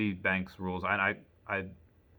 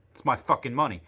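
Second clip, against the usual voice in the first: higher, louder indignant swear; retold outburst; 4 semitones higher, 4 dB louder than usual. Imagined reply to the bank clerk, a louder indignant outburst. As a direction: vent like you can't believe it. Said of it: "I didn't say that".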